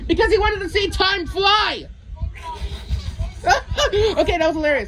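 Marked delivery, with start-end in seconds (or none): 0.1-1.9 slow triumphant yell; punchline shout. Acted. Punchline of a joke. 1.9-4.1 big laugh at his own joke; real hearty laugh. Real, not acted.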